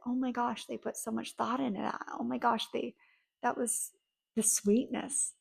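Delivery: soft, hushed savoring; savoring, basking. Shown as a demonstration. Savoring a thoughtful gift, a hushed tender murmur. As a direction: let it sink in, quietly. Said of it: "bask in that".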